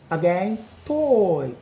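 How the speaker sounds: "toy" drawn out slowly; model toy. Shown as a demonstration. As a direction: say "toy" slow and clear. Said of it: "not toy".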